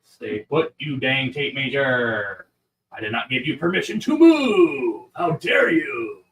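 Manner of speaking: play-angry telling off an object; mock angry scolding. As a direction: scold the tape measure in mock outrage. Scolding the tape measure.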